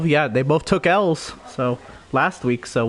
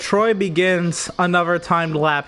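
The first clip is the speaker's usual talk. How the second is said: race commentary. Acted.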